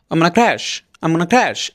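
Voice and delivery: "I'm gonna crash" with "I'm gonna" swallowed; fast reduced pronunciation. Shown as a demonstration. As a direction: blur "I'm gonna" into a quick "amna" before "crash". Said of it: "এইভাবে দ্রুত বলবে". (দ্রুত, অস্পষ্ট করে I'm gonna crash)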